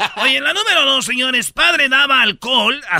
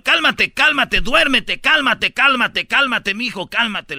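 father hushing son; 3 semitones higher, slower than usual. Retold or imitated. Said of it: "le decía el papá al hijo".

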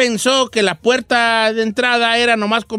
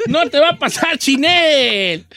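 slow, half-laughing, half-crying; mock-tearful laughing sermon; laughing mock plea; 2 semitones higher, slower than usual. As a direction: plead through laughter, hammed up.

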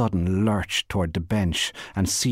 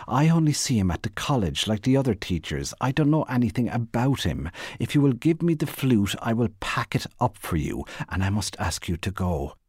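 lightly voiced, prim indignant denial; protest, then firmly but politely dismiss her; understated flustered firmness; protesting Bernice; 3 semitones higher, faster than usual.

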